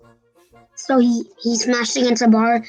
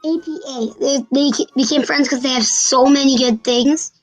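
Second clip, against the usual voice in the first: blocked nose, nasal sound; stuffy nose. Real, not acted. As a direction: talk through a stuffy nose. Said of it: "sorry, I have a stuffy nose".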